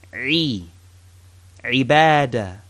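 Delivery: "Ri" and "Ibadah" with a pressed throat start; ayn demo. Shown as a demonstration. Teacher models ayn in the word for worship. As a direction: squeeze the throat before "Ibadah". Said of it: "As in ibadah".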